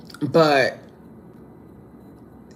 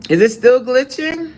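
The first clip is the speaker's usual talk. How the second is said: alarmed; 10 semitones higher than usual. Real, not acted. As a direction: call out in sudden worry. Alarmed at chat.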